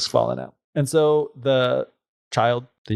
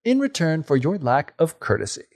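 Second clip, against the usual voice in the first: fairy decree. Acted. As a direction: pronounce a curse. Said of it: "the fairy then says".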